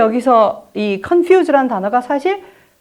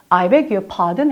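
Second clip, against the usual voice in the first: polite and slow; 4 semitones lower, much slower than usual. Shown as a demonstration. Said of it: "그래서".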